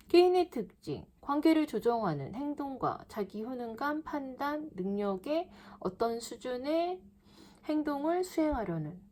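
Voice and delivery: halting, pausing after each phrase; choppy word-by-word reading. Shown as a demonstration. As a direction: read it in small pieces like a confused student. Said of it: "글을 이렇게 읽는다고요". (단어마다 끊어서 읽는 나쁜 예시)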